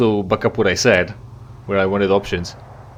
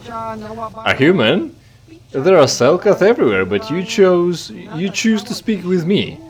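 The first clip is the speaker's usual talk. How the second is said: mysterious alien stranger; 8 semitones higher than usual. Acted. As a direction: play the cryptic stranger, drawing it out. Voicing a game character's lines.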